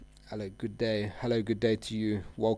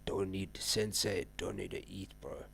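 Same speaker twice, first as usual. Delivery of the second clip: mock monk; 3 semitones lower, 7 dB quieter than usual. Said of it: "become like a monk".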